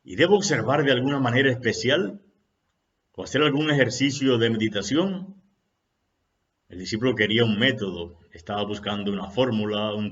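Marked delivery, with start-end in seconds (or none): 0.0-5.4 higher, louder agitated questions; agitated disciple. Acted. Agitated disciple demanding a method from his master, higher and louder. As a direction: press the master, worked up. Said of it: "el discípulo alterado le decía".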